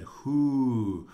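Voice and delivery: mild dramatised shock; shocked father. A narrator's reading. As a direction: react with a jolt of alarm. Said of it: "trembled very exceedingly and said".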